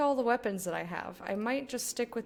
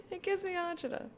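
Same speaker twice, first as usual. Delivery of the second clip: high squeaky repeat; 9 semitones higher, 4 dB quieter than usual. Real, not acted. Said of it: "but it gives me agita".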